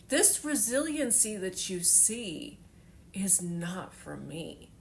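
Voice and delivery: crying for real while telling it; mother in tears begging her son to understand. Real, not acted. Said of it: "start to get all teary".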